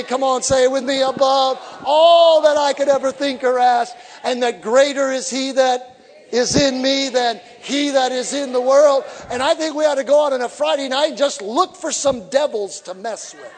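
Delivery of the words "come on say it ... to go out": loud, high shouted preaching; fiery revival preaching; preaching at full force. Real, not acted. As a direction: drive it home to the congregation.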